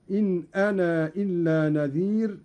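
أنا with its final long ā sounded before إلا; alif kept. Shown as a demonstration. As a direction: keep the alif of أنا when joining it to إلا. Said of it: "بإثبات الألف وصلا ووقفا". (إثبات ألف «أنا» في الوصل)

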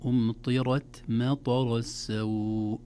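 slow, measured Quranic recitation; recitazione coranica. Shown as a demonstration. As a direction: recite the verse slowly with drawn-out vowels. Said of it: "دعونا نبدأ".

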